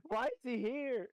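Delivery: high, slow laughing question. Real, not acted. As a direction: ask it through laughter. Laughing aside in odd voice.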